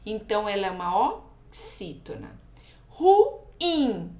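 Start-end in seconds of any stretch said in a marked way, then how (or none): 2.9-4.2 "Ruim" loud and high, split before a strong IM; teacher's loud demo of "Ruim", held IM; stress on IM. Shown as a demonstration. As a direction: separate "Ruim" into two beats, weight on final IM. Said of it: "O in é o mais forte".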